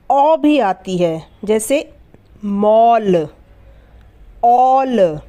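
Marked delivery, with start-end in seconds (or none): 2.4-5.2 मॉल and ऑल with a round ओ, a little louder; modelling words. Shown as a demonstration. Teacher models मॉल, ऑल for students, stressing ओ. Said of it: "ए की sound क्या आ रही है".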